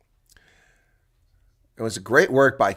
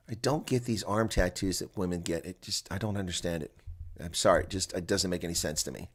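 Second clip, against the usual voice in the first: much softer muttered aside; quiet aside; 6 semitones lower, 12 dB quieter than usual. Real, not acted. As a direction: drop to a private mutter. Muttered aside about tattoos.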